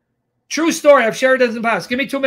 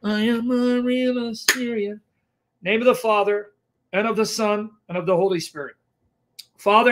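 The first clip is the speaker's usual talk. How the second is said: prayer; 2 semitones lower than usual. Real, not acted.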